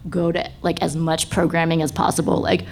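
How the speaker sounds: normal talking voice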